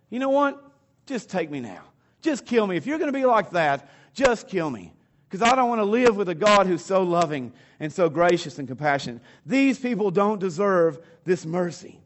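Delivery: a mildly sulky, overdramatic complaint; overdramatic cranky. Retold or imitated. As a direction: grumble at God like a sulking servant. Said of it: "Now, it seems dramatic".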